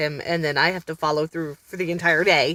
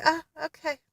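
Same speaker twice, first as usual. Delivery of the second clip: stunned okay; 10 semitones higher, 5 dB quieter than usual. Retold or imitated. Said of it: "And I'm just like".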